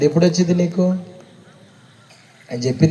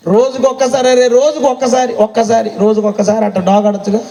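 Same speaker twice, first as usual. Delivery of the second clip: pleading rebuke; 5 semitones higher than usual. Acted. Preacher building rebuke.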